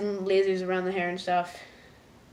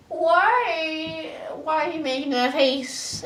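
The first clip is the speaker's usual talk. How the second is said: higher mock puzzled ask; puzzled question; 7 semitones higher, slower than usual. Marco asking Star about her face, puzzled. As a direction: ask like a confused kid.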